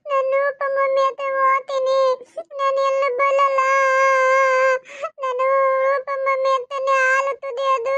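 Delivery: put-on high, stubborn little girl demanding milk; toddler voice. Little daughter refusing to leave, high toddler voice. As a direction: pitch it up like a two-year-old insisting.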